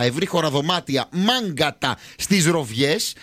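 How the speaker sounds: slow, measured promotional read; sponsor ad read. Real, not acted. Host presents the seaside hotel prize, slow ad read. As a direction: sell the hotel, drawing out the key words.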